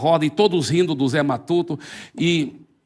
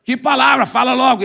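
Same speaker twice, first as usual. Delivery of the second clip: impatient demand; 6 semitones higher, 6 dB louder than usual. Acted. Atheist loses patience.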